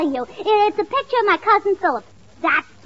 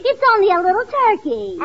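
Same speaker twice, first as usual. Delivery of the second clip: soothing pet; 4 semitones higher than usual. Acted. Gracie soothes duck Herman.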